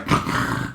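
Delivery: short breathy mock snore; imitated snore. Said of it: "I snore, like, in five seconds".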